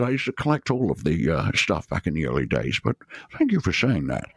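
lightly imitated Scottish film star; a hint of the actor's Scottish burr; gracious Scottish star, lightly impersonated; Sean Connery. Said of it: "I met a singer and Sean Connery".

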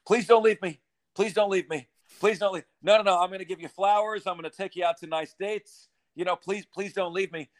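pleading desperate lover; begging an ex back. Acted. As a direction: beg like a dumped partner. Collectives begging players to stay.

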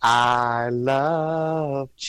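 very slow, drawn-out robotic line; Jetsons impression. Friend does a Jetsons voice for the group, slow and drawn out. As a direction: stretch each word like a cartoon robot. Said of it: "Here's my Jets impersonation".

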